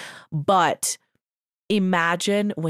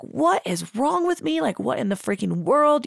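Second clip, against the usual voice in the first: high, exasperated cry of disbelief; mock frustrated outburst; 5 semitones higher than usual. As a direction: throw up your hands at yourself. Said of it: "I was like".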